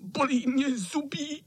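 very high, whiny sick-cat voice; whimpering cat. A narrator's reading. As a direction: whine it like a poorly old tomcat. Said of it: "zakňovral kocour".

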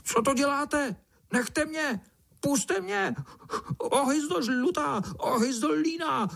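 very high, panicked crying cries; frantic ant. Acted. Swallowed ant shrieks at the beetle in panic. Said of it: "Volal mravenec celý pryč".

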